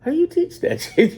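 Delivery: high, laughing disbelief; incredulous laugh. Retold or imitated. To the crowd, mocking the gay-teaching claim, laughing high. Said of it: "And I'm like".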